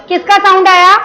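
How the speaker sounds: ordinary delivery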